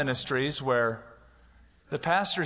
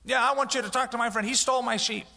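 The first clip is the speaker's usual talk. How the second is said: high, fast whiny grievance voice; mock whiny complainer; petty complainer; 8 semitones higher, faster than usual. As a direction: tattle like a petty neighbor.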